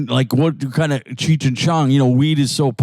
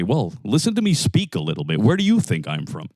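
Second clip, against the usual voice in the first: lower, softer, no trace of Brooklyn; mild, measured accent-free reply; neutral accent-free voice; 4 semitones lower, 3 dB quieter than usual. Shown as a demonstration. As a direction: speak like a bookish computer guy. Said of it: "And I'd say".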